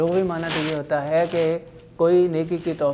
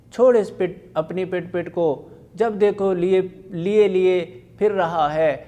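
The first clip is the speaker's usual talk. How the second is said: put-on angry mother snapping at the child, louder; scolding shout; 2 semitones higher, 4 dB louder than usual. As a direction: yell at the noisy boy to drop his toy.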